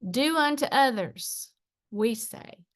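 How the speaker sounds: measured spoken-word delivery; poem reading. Acted. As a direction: read it as verse, pausing between lines. Reads own poem aloud.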